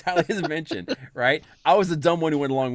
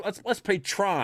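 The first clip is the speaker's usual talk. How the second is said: drawn-out, slow suggestion, a bit higher; 7 semitones higher, slower than usual. Retold or imitated. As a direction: slowly propose the game. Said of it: "and start off".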